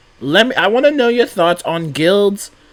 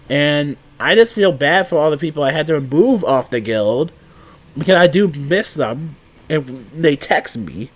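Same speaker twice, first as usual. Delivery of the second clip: congested, stuffy nose voice; blocked nose. Real, not acted. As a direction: speak through a blocked nose. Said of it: "I'm so congested right now".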